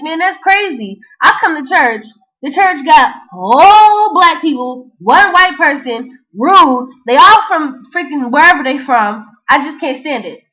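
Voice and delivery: retold angry rant; mad rant. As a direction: vent about the rude lady. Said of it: "I was mad from the get".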